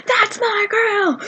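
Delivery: high, drawn-out group chant, held-back volume; mock scream. Fans greet Colleen as planned, mock screamed chant. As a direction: imitate a crowd screaming without real volume. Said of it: "And we all screamed".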